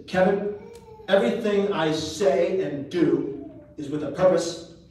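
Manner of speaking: mock-solemn dad, each word with purpose; imitating dad. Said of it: "Who talks like that?".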